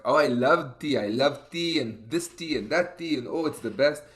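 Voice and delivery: lightly imitated gushing mom; mildly hammed-up enthusiasm; excited gushing. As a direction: gush on in a lilting, singsong list. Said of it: "gets my mom really excited about tea".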